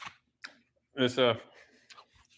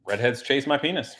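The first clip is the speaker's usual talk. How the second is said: deadpan monotone. Retold or imitated. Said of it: "dead straight, monotone".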